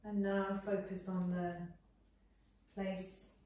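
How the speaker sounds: measured Yoga Nidra guidance with long pauses between phrases; guided meditation. Real, not acted. Teacher settling students into Shavasana, unhurried guided meditation. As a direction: guide them gently into rest, phrase by phrase.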